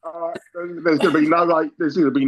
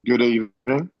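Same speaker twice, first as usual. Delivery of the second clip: telephone voice; 3 semitones lower than usual. Shown as a demonstration. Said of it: "That was the telephone voice".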